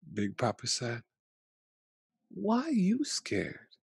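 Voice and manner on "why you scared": put-on high, slow little kid question; a puzzled small child. Grandchild asks Big Papa why he's scared, high slow childlike voice.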